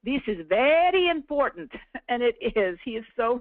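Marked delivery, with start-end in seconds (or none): 0.0-1.7 mock foreign accent, a bit higher with a punched very; George's accent. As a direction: try on a hint of an accent on the quote. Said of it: "I wish I could say that with his accent".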